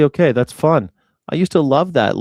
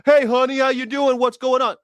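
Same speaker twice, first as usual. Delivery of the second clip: a much higher, sleazy pickup-guy voice; creepy guy; 12 semitones higher, 4 dB louder than usual. Retold or imitated. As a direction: mimic the guy hitting on a woman late at night. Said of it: "some guy's like".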